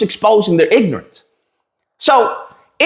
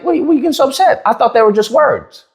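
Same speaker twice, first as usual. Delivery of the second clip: mock innocent comeback; 5 semitones higher than usual. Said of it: "what I should have said is like".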